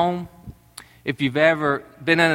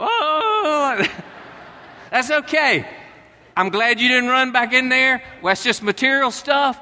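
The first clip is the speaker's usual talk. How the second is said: forced calm; 6 semitones higher than usual. Retold or imitated. Dad fakes calm over loss.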